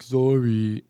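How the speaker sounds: drawn-out, grudging mock sorry; insincere apology. Kid made to apologize to sibling, insincere. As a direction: imitate a kid who doesn't care. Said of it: "and they don't care".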